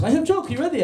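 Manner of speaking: high-pitched mock Serbian accent; comic Serbian-accented English. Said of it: "That's a Serbian accent".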